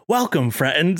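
lightly voiced TV host welcoming a guest; Mister Rogers impression. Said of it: "he does the full Mister Rogers thing".

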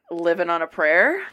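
normal talking voice

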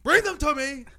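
imitated rant. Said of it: "He's like".

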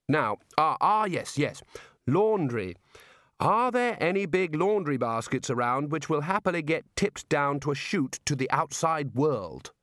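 casually probing, with hesitant starts; a prisoner feigning idle curiosity; Rincewind fishing for escape. Acted.

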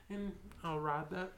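talking through hiccups; words broken by a hiccup. Real, not acted. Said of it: "Sorry, I'm hiccuping".

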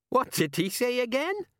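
high, eager woman's voice. A narrator's reading. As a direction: voice a curious young woman. Laughing woman asks.

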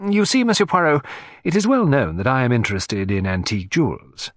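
lightly voiced collector, animated and lilting; a hint of a talkative collector; jewel collector explaining. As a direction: explain your private dealings, pitch moving freely. Narrator voices the client.

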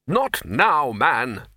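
curt, loud brush-off; impatient loud snap; snapping. Acted. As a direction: snap him off short. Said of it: "snapped the Arch-Chancellor".

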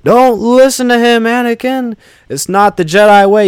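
high, strained dramatic impressions of film lines; theatrical high-pitched mimicry of film dialogue; movie line impressions. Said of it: "You get Samuel Jackson and Ian McDermott".

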